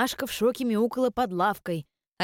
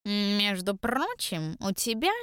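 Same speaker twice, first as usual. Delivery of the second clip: purring; slower than usual. Acted. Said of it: "промурлыкала Машка".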